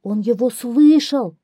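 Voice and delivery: high, loud hare chorus; hares chiming in. A narrator's reading. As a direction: chime in eagerly like little hares. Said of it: "подхватили хором зайцы". (зайцы подхватывают хором, высоко и громко)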